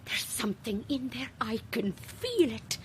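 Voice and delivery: soft, breathy whispered warning; eerie, hushed whisper of a presence. Acted. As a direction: whisper it as if the thing could hear. Medium sensing a presence.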